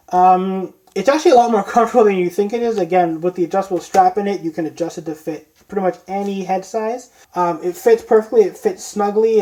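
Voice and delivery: talking through a helmet mask; muffled inside a costume mask. Real, not acted. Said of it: "And now we have the mask on".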